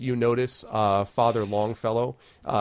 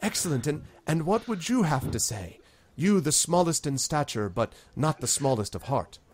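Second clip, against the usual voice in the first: lightly voiced town leader; 6 semitones higher than usual.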